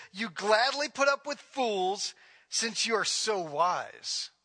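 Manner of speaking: slow, drawn-out mock praise; mock admiration, stretched out slowly; sarcastic. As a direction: read it with heavy, deliberate sarcasm. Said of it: "he gets real sarcastic".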